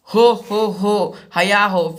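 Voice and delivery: loud booming laugh-chant; Bhim's laughing shout. Acted. Bhim roaring with laughter in the forest, loud laugh-chant. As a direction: laugh it out carefree. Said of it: "फिर हंसता है".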